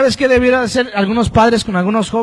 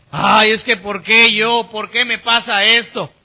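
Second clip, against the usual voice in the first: mock complaining; 3 dB quieter than usual. Mimics a complaining believer.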